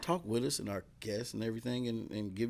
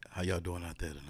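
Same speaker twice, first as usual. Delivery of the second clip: smooth late-night radio DJ; lightly played radio DJ hello; 3 semitones lower than usual. Shown as a demonstration. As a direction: greet listeners in a put-on DJ voice. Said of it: "can I get my D J voice?".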